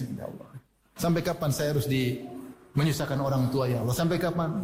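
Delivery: hushed, pleading cry to God; half-acted weeping plea; mock tearful prayer.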